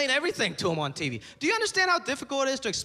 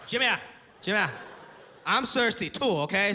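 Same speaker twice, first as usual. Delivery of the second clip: put-on old Chinese dad. Dad voiced in story.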